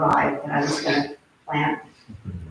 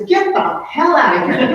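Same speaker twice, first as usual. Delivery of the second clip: loud, high angry shout; angry yell; 8 semitones higher, 7 dB louder than usual. Retold or imitated. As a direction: yell them away, furious. Lori yelling at boys.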